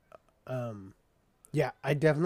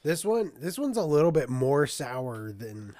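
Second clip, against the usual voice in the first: smacking lips while talking; wet mouth clicks. Real, not acted. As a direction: wet mouth noises between words. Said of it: "Sorry for all the mouth noises I'm making".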